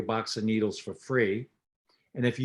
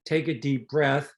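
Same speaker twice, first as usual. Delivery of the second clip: calm instruction; 2 semitones higher than usual. Shown as a demonstration. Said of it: "then you say".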